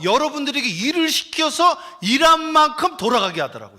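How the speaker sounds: high, loud, driving sermon delivery; full-force preaching. Acted. Pastor urging the congregation to act, loud preaching. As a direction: pound each phrase home to the pews.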